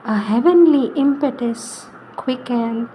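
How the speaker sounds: verse read in short phrases with long pauses; poem recitation. Acted. Reader recites Savitri to listeners, poem recitation. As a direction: let each phrase hang before the next.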